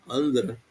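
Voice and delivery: Andra stressed on its first syllable, falling away softly; stress on penultimate. Shown as a demonstration. Teacher puzzling over the accent shift, first-syllable stress on Andra. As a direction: say Andra quietly with the weight on An. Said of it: "o acento vai pra cá".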